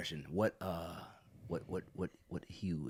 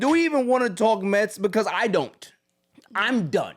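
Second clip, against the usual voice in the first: loud, raised-pitch exasperation; fed up; 5 semitones higher, 7 dB louder than usual. Real, not acted. Host refuses to talk Mets, fed up. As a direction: throw up your hands, loudly done with it.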